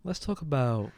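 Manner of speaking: podcast host parody. Retold or imitated. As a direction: whisper it like a cozy podcast. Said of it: "I'll do a version of Sophia's podcast".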